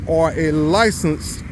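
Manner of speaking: slow, pointed "licensed"; stress on licensed. Retold or imitated. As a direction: lean on licensed, each syllable deliberate. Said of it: "I emphasize the word licensed".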